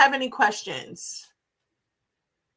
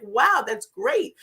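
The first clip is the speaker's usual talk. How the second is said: impressed reaction; 6 semitones higher, much slower than usual. Retold or imitated. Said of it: "I was like".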